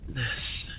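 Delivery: shaky breathless whisper; trembling whisper. Acted. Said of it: "he whispered, voice trembling".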